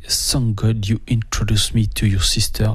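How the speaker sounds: English song title in a French accent. Real, not acted. Host announcing the musical break, French-accented English. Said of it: "avec mon magnifique accent anglais".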